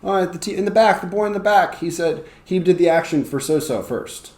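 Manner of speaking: single out the winning pupil; refereeing teacher. Shown as a demonstration. Teacher picks the boy in the back, high and lively. Acts out judging who was first.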